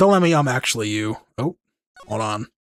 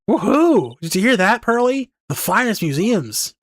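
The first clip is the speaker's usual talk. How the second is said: excited cheer; 7 semitones higher than usual. Acted. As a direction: cheer about the finest museums. Maya cheers about the museums.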